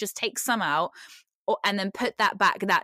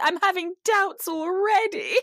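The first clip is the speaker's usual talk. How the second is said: higher, put-on dramatic wife; imitating Katrina; 9 semitones higher than usual. Mocking Katrina doubting her new husband, higher. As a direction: toss it off like a disappointed bride. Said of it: "she's like".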